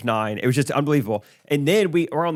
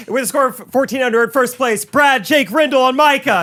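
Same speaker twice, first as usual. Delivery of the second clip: announcer voice; 10 semitones higher, 5 dB louder than usual. Retold or imitated. Retelling the winners being announced.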